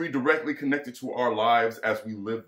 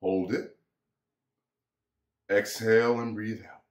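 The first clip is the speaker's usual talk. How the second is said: calming breath guide. Shown as a demonstration. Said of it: "Let's all just take a deep breath".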